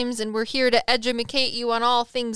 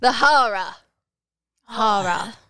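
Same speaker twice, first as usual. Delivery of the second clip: loud New York accent on the word "horror"; 5 dB louder than usual. After Em's remark on the title, speaker says it again in a New York accent. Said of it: "I'm just going to say it like a New Yorker this time".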